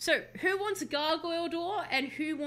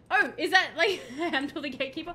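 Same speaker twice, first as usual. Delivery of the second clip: laughing through the question; giggling at a silly name; 2 semitones higher, 4 dB louder than usual. Real, not acted. Streamer laughing at the gatekeeper's name.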